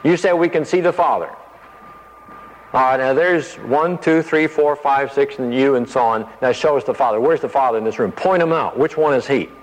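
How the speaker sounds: a blunt, challenging demand. Retold or imitated. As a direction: push him to point the Father out. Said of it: "Philip gets very blunt about it".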